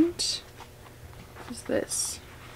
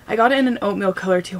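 breathless after the stairs; out of breath; much faster than usual. Real, not acted. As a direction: talk while catching your breath. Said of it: "so out of breath after literally just walking up the stairs".

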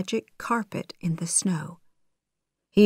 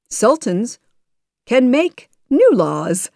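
higher, louder, pleased announcement; happy; 6 semitones higher, 4 dB louder than usual. A narrator's reading. Sultan arrives with good news, happily. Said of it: "he said happily".

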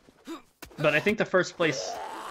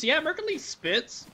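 hype; 12 semitones higher than usual. Real, not acted. Hyping a rapper.

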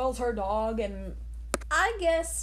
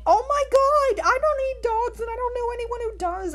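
louder, higher, shocked protest; horrified; 13 semitones higher, 6 dB louder than usual. Real, not acted. A kid denying eating dogs, loud horrified outburst. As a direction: blurt it out, appalled.

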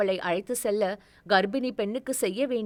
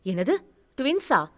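surprised; 2 semitones higher than usual. Acted. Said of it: "கண்கள் ஆச்சரியத்தில் விரிந்தது".

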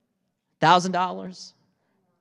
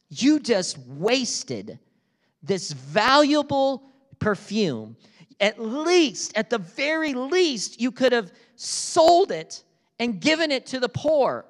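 slow, higher reproachful voicing of the critics; mock scolding disciples; 7 semitones higher, 3 dB louder, slower than usual. Disciples scolding Mary over wasted perfume, mock reproach. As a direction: lightly act out the scolding.

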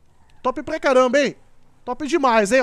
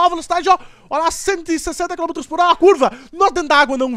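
excited racing; 4 semitones higher, 5 dB louder, faster than usual. Real, not acted. Racing at high speed.

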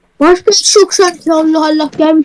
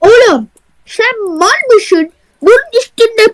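contemptuous; 6 semitones higher, slower than usual. Acted. Boss scolds the customer.

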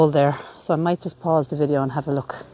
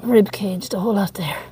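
whispering; 3 semitones higher than usual. Real, not acted. Peeping into crypt, hushed.

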